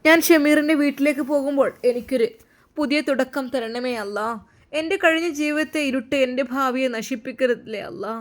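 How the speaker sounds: hopeful prayer. A narrator's reading. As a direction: beg God for a new beginning, voice lifted. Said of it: "അവൾ വീണ്ടും ദുആ ചെയ്തു".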